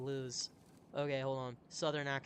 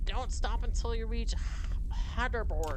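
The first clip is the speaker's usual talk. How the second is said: higher, louder urgent order; loud urgent command to keep running; shouted order; 7 semitones higher, 10 dB louder than usual. Acted. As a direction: yell the order over the noise. Falstaff orders the flight.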